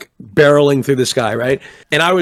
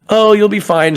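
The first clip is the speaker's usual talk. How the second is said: imitating flight attendant; 8 semitones higher, 4 dB louder than usual. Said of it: "And they're like".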